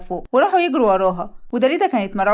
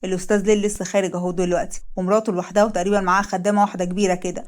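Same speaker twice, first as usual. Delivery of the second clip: lightly lowered henchman reporting; a hired man reporting in, voiced a bit lower; 3 semitones lower than usual.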